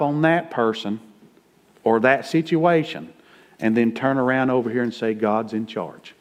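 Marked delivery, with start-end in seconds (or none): 5.1-6.2 a soft, slow mock of the believer's claim; mock pious quote. Preacher mimicking a two-faced believer, soft and slow. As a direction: quote it small and slow, half-hearted.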